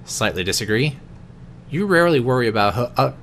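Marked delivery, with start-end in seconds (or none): 1.7-3.1 stumbling over the words; stutter. Real, not acted. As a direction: trip over the words and restart. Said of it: "Sorry for my stuttering".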